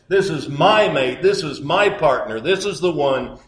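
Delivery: emphatic preaching. Acted. Preacher proclaiming Adam's joy to the congregation, emphatic. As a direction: build it with force, line after line.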